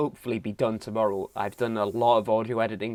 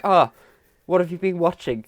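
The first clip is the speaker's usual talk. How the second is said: lightly put-on pleasant interest; mock calm politeness; 7 semitones higher, 5 dB louder than usual. Co-host imitating Reagan's calm manner with Dan. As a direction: ask sweetly, all calm. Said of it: "nice, calmly collective manner".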